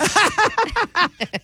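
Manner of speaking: high-pitched imitated cackle; exaggerated high ha-ha burst; laugh impression. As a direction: mimic her big laugh, way up high. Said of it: "let me do an impression".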